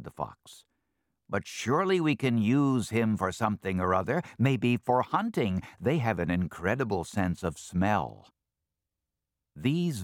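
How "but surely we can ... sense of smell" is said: scheming fox. Acted. Fox schemes about using him.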